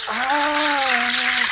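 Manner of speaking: high, held ah; imitated call. Shown as a demonstration. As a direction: sing out a bird-like ah. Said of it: "Then you go".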